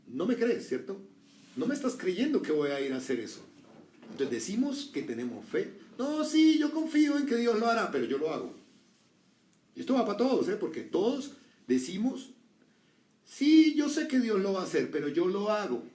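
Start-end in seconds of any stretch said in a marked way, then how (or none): 0.1-3.4 insistent father. Acted. Father insists daughter doesn't believe him. 6.0-8.5 high, loud, falsely eager voice; mock believer. Preacher mocking believers who rely on themselves, high and loud. 13.2-15.8 high, loud, falsely eager voice; mock believer. Preacher mocking believers who rely on themselves, high and loud.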